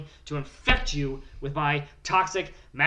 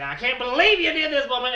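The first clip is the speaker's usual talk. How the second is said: retold angry yell; 7 semitones higher, 5 dB louder than usual. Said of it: "as I said".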